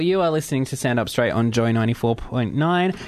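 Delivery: radio announcer. Acted. Radio station ident.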